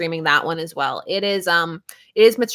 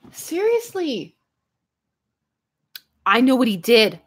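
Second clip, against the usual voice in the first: laughing; 3 semitones higher than usual. Real, not acted. Reacting to chat laughing.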